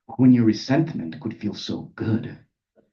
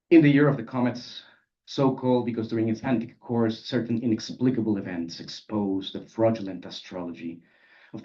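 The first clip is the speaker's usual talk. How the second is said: poem reading; 3 semitones lower, 4 dB quieter than usual. A narrator's reading. Reads a prose poem aloud.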